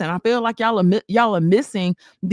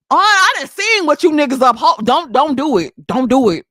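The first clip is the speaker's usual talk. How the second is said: scolding; 2 semitones higher, 5 dB louder than usual. Real, not acted. Scolding viewers.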